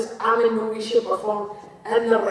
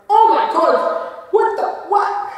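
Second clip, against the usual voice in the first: slow, high, loud disbelief with laughter; freaking-out fan; 6 semitones higher, 6 dB louder, slower than usual. Retold or imitated. Fans spotting wrestler in public, high loud stunned gush. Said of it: "they freak out".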